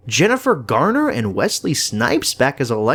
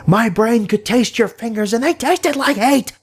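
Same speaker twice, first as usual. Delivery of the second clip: much higher, eerie sing-song villain voice; creepy villain quote; 12 semitones higher than usual. Retold or imitated. Reviewer imitating Cassandra Nova taunting a hero, eerie high voice. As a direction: purr it like an unhinged telepath. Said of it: "She plays this role really well".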